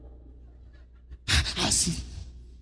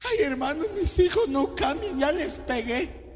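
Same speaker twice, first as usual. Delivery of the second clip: mock complaining sister; 4 dB quieter than usual. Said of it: "me dijo una hermana".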